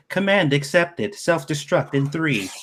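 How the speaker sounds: slow, flat machine announcement; robot voice. Pretend. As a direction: read it like a glitching computer. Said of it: "and it was like".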